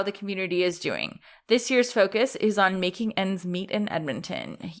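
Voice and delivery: steady, polished ad read; sponsor read. Acted. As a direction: read it like a podcast ad.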